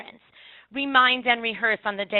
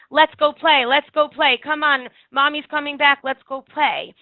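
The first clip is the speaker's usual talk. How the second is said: loud, higher sing-song coaxing; chirpy cajoling; 4 semitones higher, 7 dB louder than usual. Retold or imitated. Adults coaxing a crying child, loud chirpy coaxing. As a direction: brightly hurry the child off to play. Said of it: "Everyone up until then was saying".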